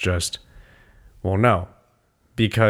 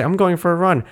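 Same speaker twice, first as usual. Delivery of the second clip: mock chirpy; 7 semitones higher than usual. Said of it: "When I say".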